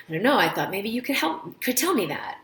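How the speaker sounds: light, helpful and friendly, rising a little; a mild friendly patient, lightly voiced. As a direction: answer kindly, just trying to help. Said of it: "a really friendly tone".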